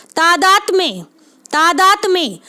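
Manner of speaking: "तादात में" as taa-daat-mye, both a's long; teacher's measured "तादात में", taa-daat-mye; careful model pronunciation. Shown as a demonstration. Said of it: "ऐसे पढ़ें इसको".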